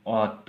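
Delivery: अत said loudly on its own; teacher sounding out अत; letter-name demo. Shown as a demonstration. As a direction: pronounce अत firmly, set apart as a letter name. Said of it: "इसको बोलता है".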